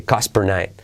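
"Cost per night" as "casper night"; barely sounded T. Shown as a demonstration. Teacher showing learners "Cost per night" with T dropped. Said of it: "La T casi no se dice".

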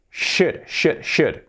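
"should" with SH and a silent L; correct should. Shown as a demonstration. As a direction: drill "should" without any L. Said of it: "Lo primero, la pronunciación". ("should" bien pronunciado, sin la L)

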